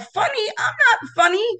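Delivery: high, whiny half-crying protest; mock distress. Speaker retelling her reply to being told to be funny, half-crying. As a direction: wail it like a panicked plea. Retold dismay at request.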